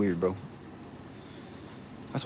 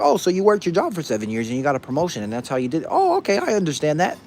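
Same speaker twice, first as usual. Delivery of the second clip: louder, rising into a high approving Oh okay; mock accepting person; 5 semitones higher, 4 dB louder than usual. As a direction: play the easily convinced listener. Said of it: "They'll be like".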